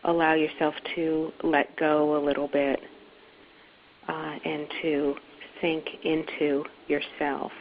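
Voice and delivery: unhurried meditation guide with long pauses; guided meditation. Acted. Teacher inviting listeners to let go, guided meditation. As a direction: ease them gently in, phrase by phrase. Leads a guided settling exercise.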